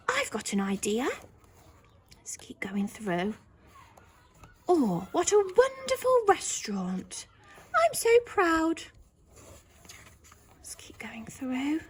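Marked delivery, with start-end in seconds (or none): 4.7-8.8 high, bright-eyed praise; proud delight. Shown as a demonstration. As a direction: beam with pride. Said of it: "everybody's looking a bit more cheery".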